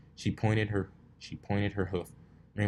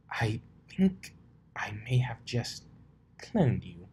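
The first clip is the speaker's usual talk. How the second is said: breathless confession of a mistake; Rarity's voice; 3 semitones higher, slower than usual. Acted.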